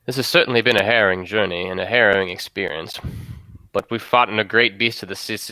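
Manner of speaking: measured speech with weighty pauses; solemnly rally the crew, pausing between phrases; captain's rallying speech. Acted. Captain to the crew after days of craziness, solemn rallying speech.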